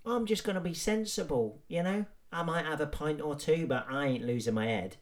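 high, light voice of a sensible drinker; lightly voiced overconfident lad; mock sensible punter. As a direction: play the naive lad promising to behave. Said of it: "everyone's gonna say the same thing".

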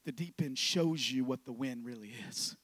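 low, soft, understated delivery; soft low-key read; quiet statement. Acted. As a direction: say it softly, almost to yourself. Quiet first take of line.

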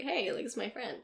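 imitating a casual, unbothered introduction; nonchalant. Man introducing her to a friend in public, nonchalant. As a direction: toss it off softly, as if it's nothing. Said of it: "so nonchalant about it".

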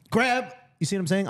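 high squeaky germ grabbing on; cute germ voice. Acted. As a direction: play a tiny pouncing germ. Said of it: "Let me pretend I'm a germ".

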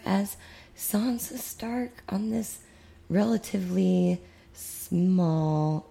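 drawn-out sarcastic understatement. Pretend. Host playing down Game of Thrones as obscure, sarcastic. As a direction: stretch it out with mock seriousness. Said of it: "This is totally sarcastic".

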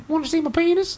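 very high squeaky little man; squeaky midget voice. Pretend. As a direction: pitch it way up, creepy. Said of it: "It's me, Knee-High".

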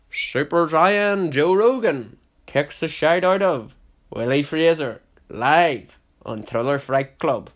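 high, loud, slow hype call, partly breathy; fight announcer. Pretend.

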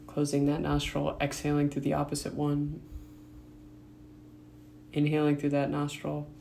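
quiet, even guiding voice with long pauses; guided meditation. Real, not acted. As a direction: softly lead the breathing, leaving room between phrases. Leads breathing practice, long pauses.

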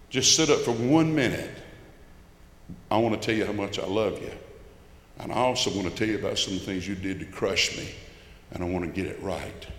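quiet, fading plea to a dying father; mild retold begging. Son begging his unconscious father at the bedside, softly pleading. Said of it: "I begged".

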